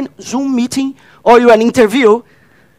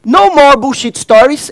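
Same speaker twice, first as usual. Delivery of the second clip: raised call for the audience to echo; rally call; 3 semitones higher than usual. Shown as a demonstration. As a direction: call it out so they answer back. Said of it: "So I will say".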